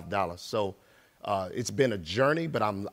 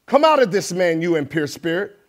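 commanding; 6 semitones higher, 8 dB louder than usual. Acted. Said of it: "Jesus has said to him".

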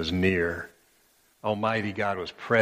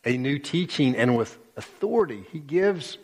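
mildly amazed rising question; 5 semitones higher than usual. Acted. Astonished crowd asking each other, amazed. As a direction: wonder at what you just saw. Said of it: "so amazed they asked each other".

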